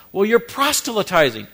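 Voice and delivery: a touch of a scornful objector; accusing critic. Retold or imitated. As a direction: throw the charge at him like a critic.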